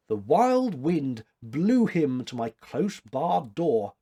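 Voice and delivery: slow recited line of verse; reciting a quote. A narrator's reading. The girl quotes a verse about finding him, recited slowly. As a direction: intone it like a poem. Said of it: "quoted the girl".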